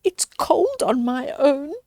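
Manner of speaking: whispered, cold and lonely; shivering whisper. Acted. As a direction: whisper it as if freezing alone. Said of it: "said Percy, shivering".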